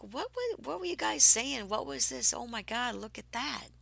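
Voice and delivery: high, loud baffled questions; genuinely confused, catching up; retold astonishment. Stunned on return from flight.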